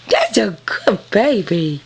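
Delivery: whispered praise. Real, not acted. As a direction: breathe the praise tenderly. Praising puppy.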